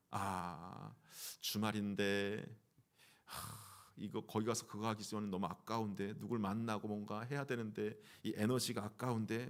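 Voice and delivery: low, soft grumble with a sigh; reluctant inner grumbling. Acted. A church member asked to volunteer on the weekend, low reluctant grumbling. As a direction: grumble privately, dragging out the first words. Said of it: "먼저 따지게 됩니다".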